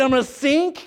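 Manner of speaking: high, shouted panic; panicky Peter. Acted. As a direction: cry out that you'll sink. Peter fearing sinking.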